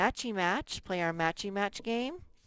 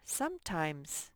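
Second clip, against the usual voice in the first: softer model word; 5 dB quieter than usual. Shown as a demonstration. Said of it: "squish the two words together".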